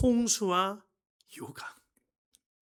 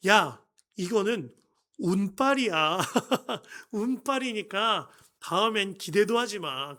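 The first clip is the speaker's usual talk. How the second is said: mocking dismissal; 4 dB louder than usual. Father dismisses win as luck.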